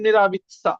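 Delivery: নেরাবিৎসা ending in a clean -tsa. Shown as a demonstration. Teacher modelling the word for learners, নেরাবিৎসা with -tsa. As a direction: close নেরাবিৎসা on tsa, no i sound before the a. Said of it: "সা উচ্চারণ করবেন".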